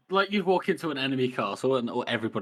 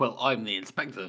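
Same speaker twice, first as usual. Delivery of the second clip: ordinary talk, nothing marked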